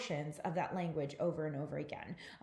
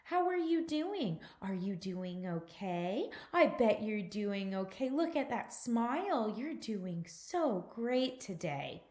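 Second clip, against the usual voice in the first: put-on sing-songy, up-and-down baby talk; infant-directed speech; 2 semitones higher than usual. Shown as a demonstration. Demonstrating repetition within speech to infants, sing-songy baby talk. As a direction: swoop up and down, drawing out words for a baby. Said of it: "we also repeat things heavily".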